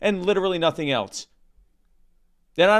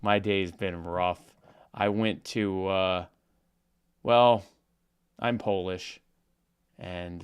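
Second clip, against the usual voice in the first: a hint of Norm's dry, meandering storyteller voice; Norm Macdonald impression. Telling the Polish sausage joke to his cohost in a mild Norm-style deadpan. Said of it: "cease and desist from the Norm Macdonald estate".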